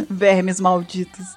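slow, low villain sneer; Vegeta voice. Acted. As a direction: growl it like a proud villain. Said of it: "Pura igual Vegeta". (voz de vilão arrogante)

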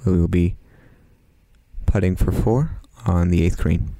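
mock golf announcer, low-key and measured; lightly parodied tournament commentary with long pauses; hushed golf commentary. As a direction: play a restrained TV golf commentator.

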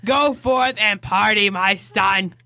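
lightly voiced old smoker priest. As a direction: bless them like a raspy old priest. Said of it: "That's my priest voice".

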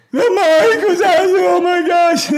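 very high, loud squealing gush; imitated excited finisher. Athlete calling back in a high, loud tearful squeal. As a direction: squeal it out like an overjoyed caller. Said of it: "My phone will ring".

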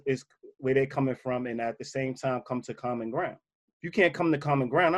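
ordinary delivery

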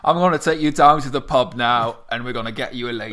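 a hammed-up uncle dragging him to the pub; mock rowdy uncle. Mock uncle pushing youth.

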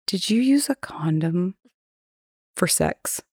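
unvoiced, embarrassed whisper; hushed question to the tenant.

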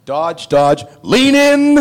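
Eddie egging on. Retold or imitated. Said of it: "Eddie goes".

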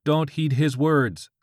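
high, loud, drawn-out divine order; screamed command. A narrator's reading. God warns George from his pants, screamed order. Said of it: "God screamed from George's pants".

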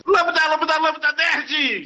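high, slow nasal-free nerd voice. Shown as a demonstration. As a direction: squeak it out like a nerd. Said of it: "você tem uma voz de nerd".

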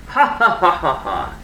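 deep, booming laugh from all around. A narrator's reading. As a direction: laugh like an unseen giant. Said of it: "a deep, booming laugh".

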